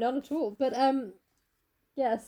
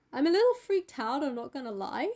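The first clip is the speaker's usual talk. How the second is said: freaked-out Basil. Retold or imitated. Painter to Dorian before the unveiling, mildly freaked out. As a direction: act out a slightly weirded-out friend.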